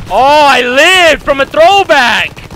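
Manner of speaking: loud, slow, stretched-out cheer; excited disbelief. Real, not acted. Gamer cheering after surviving a close call, loud slow cheer. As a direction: savour the lucky escape out loud.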